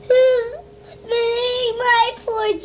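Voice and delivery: put-on high, small baby bear voice; high little bear cub asking.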